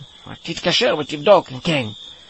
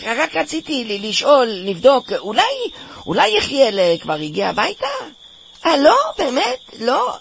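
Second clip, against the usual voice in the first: high, hesitant phone voice, slowing down; nervous polite call; 3 semitones higher than usual. Acted. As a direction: sound nervous on the phone to the parents. (קול נבוך וגבוה בשיחת טלפון להורים)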